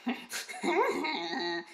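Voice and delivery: grumpy servant's wheezy snicker; Kreacher laugh. Acted. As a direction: chuckle to yourself as the grumbling creature. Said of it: "There's that particular voice for that one".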